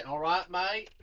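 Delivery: clumsy attempt at an Australian accent; bad Australian. Shown as a demonstration. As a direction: try Aussie and land in parody. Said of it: "I can't do Australian without sounding like".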